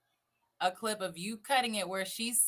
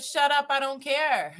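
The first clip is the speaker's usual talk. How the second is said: loud mock brush-off; mock-angry, raised voice; imitated dismissal; 7 dB louder than usual. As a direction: act out shutting someone down. Acting out his dismissal.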